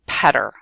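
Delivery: "petter" said pedder, quick tap; tapped petter. Shown as a demonstration. Teacher setting an exercise, "petter" as pedder. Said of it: "change that B to a P".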